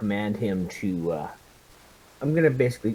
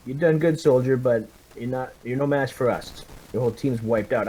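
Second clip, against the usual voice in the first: commanding officer; 3 semitones higher than usual. Acted. Captain telling the captured soldier his team is gone, firm. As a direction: tell him his war is lost, with authority. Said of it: "I say".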